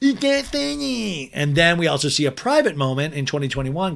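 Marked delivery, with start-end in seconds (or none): 0.0-1.3 very high put-on taunting parrot voice. Recapping a scene, quoting how Schwartz mocked Katie, re-enacting a mocking voice. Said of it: "And in a mocking voice".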